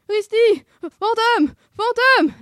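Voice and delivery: very high, loud panicked yelps; cartoon dog warning. A narrator's reading. Scooby warns Sammy of the ghost, yelping. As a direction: yelp the alarm like a cartoon dog. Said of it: "l'avertit Scooby".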